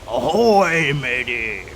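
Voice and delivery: low, growled pirate hail; growly, falling pirate voice. Shown as a demonstration. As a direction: sink low into a pirate greeting. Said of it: "lower your voice to, uh, like a, like a growl".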